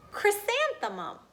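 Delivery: high, proud announcement of the name; grand announcement. Acted. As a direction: present the name like a prize.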